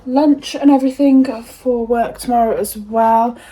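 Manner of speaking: slow, breathless and puffing; out of breath. Real, not acted. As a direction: gasp for air between phrases. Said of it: "I'm out of breath".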